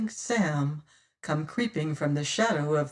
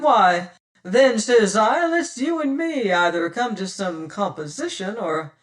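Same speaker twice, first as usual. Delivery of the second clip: challenging captain; 6 dB louder than usual. Acted. Tressady daring Penfeather to a duel, loud. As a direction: dare him to come ashore.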